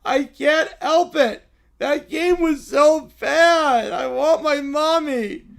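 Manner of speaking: put-on slow, loud childish whimper; whiny crying child. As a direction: whine like a tearful toddler. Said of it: "but only if you stop crying".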